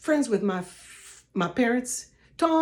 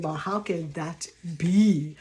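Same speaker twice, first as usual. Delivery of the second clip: lower, slow puzzled question; imitating a doubter; 5 semitones lower, slower than usual. Viewer doubting a stranger's story, lower and slow. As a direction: voice a sceptical viewer. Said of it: "and you're saying".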